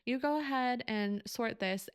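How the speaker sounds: a touch of cute Australian lilt; Australian accent. Retold or imitated. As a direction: imitate a friend's cute little Australian accent. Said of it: "cute little accent".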